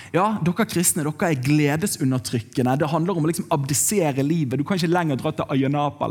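ordinary delivery

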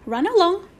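high sing-out dismissal; funny old-fashioned. A narrator's reading. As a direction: shoo the children off quaintly. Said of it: "she said in a funny old-fashioned way".

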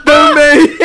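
loud laughing exclamation. Real, not acted. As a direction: blurt it out laughing. Bursts out laughing at joke.

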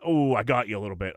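understated, offhand retold confession; casual admission. Barber admitting a clipper slip to his client, casually downplayed. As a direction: play the mishap down in an everyday voice.

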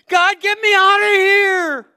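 desperate screamed prayer, high, long and very loud; Jonah. Acted. Preacher acting Jonah trapped in the fish, screaming his prayer. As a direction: scream a frantic cry for rescue. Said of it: "He shouted out his prayer".

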